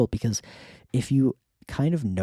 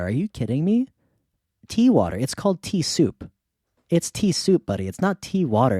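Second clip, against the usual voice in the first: mock scolding; 4 semitones higher than usual. Friends teasing Dirt over tea.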